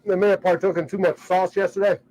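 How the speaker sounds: talking through a mouthful of food; words round a bite of food; mouth full. Real, not acted. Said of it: "I'm talking with my mouth full".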